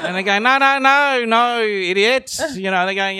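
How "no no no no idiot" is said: drawn-out mock exasperation; exasperated correction. Australians correcting a confused newcomer, mock exasperation. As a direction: imitate locals putting a newcomer right, slowly.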